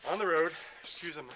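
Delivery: winded, catching breath; out of breath from running. Real, not acted. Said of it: "I'm a little out of breath".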